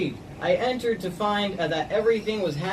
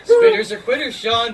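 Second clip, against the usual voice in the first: taunting shout; 9 semitones higher, 8 dB louder than usual. Real, not acted. Taunting friend in water challenge.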